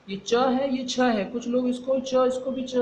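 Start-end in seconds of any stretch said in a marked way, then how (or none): 0.1-0.7 च said crisp and a little louder, unaspirated; teacher shows the class च, crisp and a touch louder; clear च sound. Shown as a demonstration. Teacher shows the class च, crisp and a touch louder. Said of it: "ये उच्चारण एकदम सही करना है". 0.8-1.2 छ said slowly with a clear breathy puff of air; aspirated छ. Shown as a demonstration. Teacher sets छ apart from च with a slow, breathy puff. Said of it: "ये उच्चारण एकदम सही करना है".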